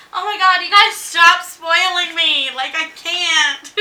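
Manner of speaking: high, loud, slow mock protest; mock fluster at being pampered. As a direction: ham up being spoiled.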